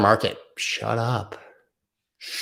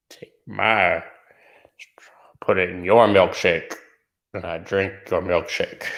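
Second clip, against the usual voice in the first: whispered movie quote. Retold or imitated.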